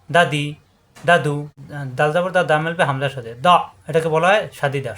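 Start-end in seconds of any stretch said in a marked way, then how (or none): 3.5-3.5 দ stopped hard on a glottal catch; hard stopped sound. Shown as a demonstration. Teacher shows hamza sukun, দ stopped hard. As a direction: shut off দ abruptly. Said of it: "শক্ত".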